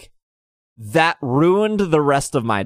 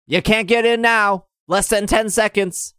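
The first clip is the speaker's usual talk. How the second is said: mocking pushy guy; 8 semitones higher than usual. Imitating the pushy raid guy.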